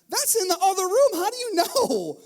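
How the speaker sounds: high, loud, incredulous protest; exasperated disbelief. Retold or imitated. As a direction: throw it back at her in disbelief. Exasperated reply to wife on FaceTime.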